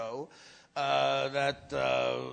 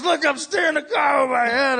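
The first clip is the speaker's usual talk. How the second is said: showing off; 8 semitones higher, 10 dB louder than usual. Retold or imitated. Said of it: "And he goes".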